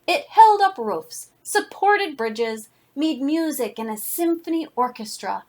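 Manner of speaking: put-on lively read-aloud voice for children; story narration. A narrator's reading. Reads picture book to class.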